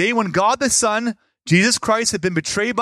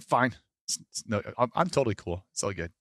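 clipped, much softer and lower, forced calm; suppressed fine; 9 semitones lower, 8 dB quieter than usual. Retold or imitated. Preacher showing how we hide pain, quietly. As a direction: swallow it, pretend you're cool. Acts out burying feelings.

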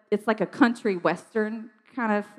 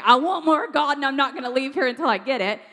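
louder, higher, insistent demand; retold bold declaration; 5 semitones higher, 4 dB louder than usual. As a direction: proclaim it and refuse to budge. Same declaration retold at altar.

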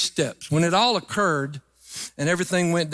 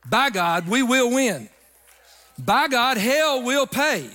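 higher-pitched, driving sermon declaration; insistent pulpit refrain; emphatic preaching; 4 semitones higher than usual. Real, not acted. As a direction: proclaim it to rally the congregation. Preacher declares victory in rising refrain.

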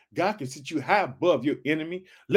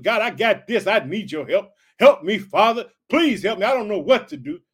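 higher, louder plea to God; pleading prayer; 3 semitones higher, 5 dB louder than usual. Acted. Believer crying out to God for help, louder and pleading. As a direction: beg the Father for help.

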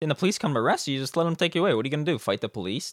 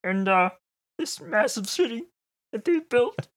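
mock preacher; 8 semitones higher than usual. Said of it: "Have you seen that video?".

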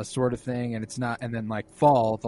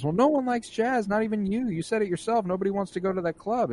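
mock boyfriend taunt; 10 semitones higher than usual. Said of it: "He says".

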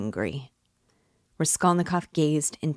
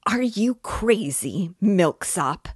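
high, loud squeal; 5 semitones higher, 4 dB louder, slower than usual. A narrator's reading. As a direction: squeal it in shrill panic. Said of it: "squealed Luzhin".

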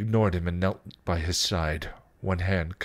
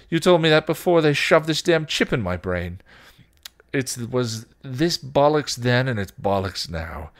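raised, incredulous rant; bitter Spike; 5 semitones higher, 5 dB louder than usual. Acted. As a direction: rant bitterly, higher and louder.

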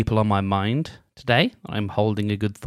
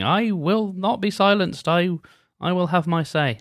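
inner voice pitched much higher and slowed, refusing to be silenced; defiant inner voice; 8 semitones higher than usual. Pretend. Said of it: "anything that's saying".

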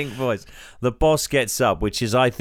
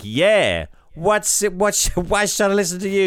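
tough thug voice; 10 semitones higher than usual. Acted. Thug Ray challenges her.

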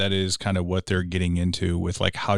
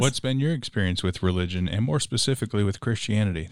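lightly put-on radio host question. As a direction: pose it with a hint of radio presenter. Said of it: "That was my radio voice".

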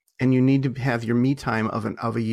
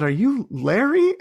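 high, louder, drawn-out mock demand; retold shouted question; 11 semitones higher, 5 dB louder, slower than usual. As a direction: call the question out high and slow. Retold questioning yelled from the truck.

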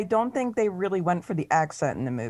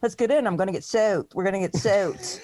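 put-on Philly accent. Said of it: "and he goes like".

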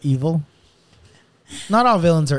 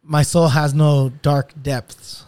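slow, deliberate villain line; slow theatrical villain menace; much slower than usual. Shown as a demonstration. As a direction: drawl it like a brooding villain. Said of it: "that doesn't sound right".

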